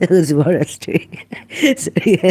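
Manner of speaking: laughing through the words; can't stop laughing at his own slip. Real, not acted. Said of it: "I'm laughing at myself".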